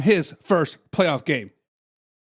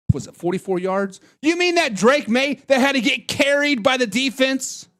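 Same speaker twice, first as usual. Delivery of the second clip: ordinary delivery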